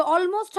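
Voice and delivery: "Almost" with the L sounded; wrong pronunciation. Shown as a demonstration. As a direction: say "Almost" as al-most, L pronounced. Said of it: "তারপরে কি হবে". ("Almost"-এ L উচ্চারণ করে)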